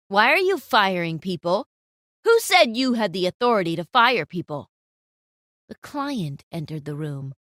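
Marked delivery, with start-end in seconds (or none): 0.1-4.7 stern challenge. Acted. Client interrupts stern.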